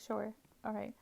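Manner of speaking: retold agreement in a whisper; whispered reply. Agreeing with Jack, whispered. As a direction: breathe it out, barely voiced.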